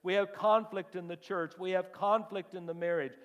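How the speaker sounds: high, loud litany of complaints; loud preached voicing. Church members telling the pastor their conflicts, preached high and loud. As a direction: cry out the list of troubles, slowing at the end.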